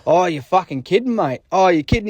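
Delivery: retold mock concern, pitched slightly up; straight-faced act. Covering for the prank call in front of his date, straight-faced act. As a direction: play along as if it's bad news. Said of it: "trying to keep a straight face".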